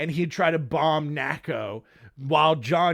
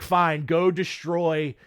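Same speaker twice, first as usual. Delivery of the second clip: indifferent; 7 semitones lower, 4 dB quieter than usual. Retold or imitated. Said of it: "it's like".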